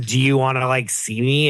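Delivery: imitated California frat accent; lightly mock a bro's accent; Patrick. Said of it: "is that not his accent?".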